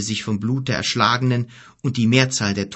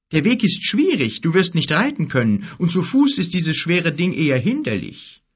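voiced giant, higher and louder; giant's voice; 7 semitones higher, 3 dB louder than usual. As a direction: play the worried giant. Gork advises Kim.

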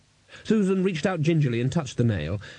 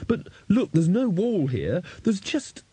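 put-on young woman voice; 8 semitones higher, slower than usual. A narrator's reading. Susan voiced.

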